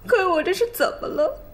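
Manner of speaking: ordinary talk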